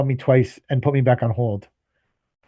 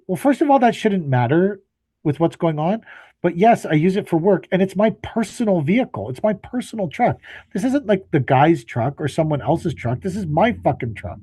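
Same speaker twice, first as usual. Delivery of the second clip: higher, heated, building indignation; exasperated rant; 5 semitones higher than usual. Retold or imitated. Caller ranting at the service manager about his truck, exasperated and higher. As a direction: let the frustration boil over.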